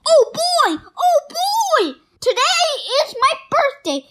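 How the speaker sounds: high, fast, bubbly delight; gleeful excitement. Acted. Kitten announcing his birthday to friends, high and giddy. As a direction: bounce with birthday joy.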